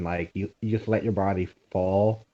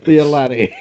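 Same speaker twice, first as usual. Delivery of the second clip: laughing; 6 semitones higher, 6 dB louder than usual. Real, not acted. Laughing through the words.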